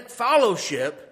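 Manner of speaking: FELLOWSHIP with an "ah" in the first syllable, "FOLLOW-ship"; said as followship. Shown as a demonstration. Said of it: "I'm saying fellowship".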